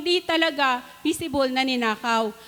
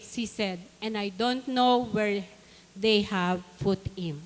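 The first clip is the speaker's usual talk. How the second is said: scripture reading; 2 semitones lower than usual. Acted. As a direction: read the Bible passage aloud, phrase by phrase. Reads scripture aloud to congregation. (mabagal na pagbasa ng Bibliya)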